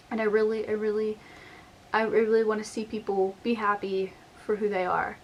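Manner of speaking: emotional, voice welling up; holding back tears; getting teary. Real, not acted. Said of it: "so I'm getting teary".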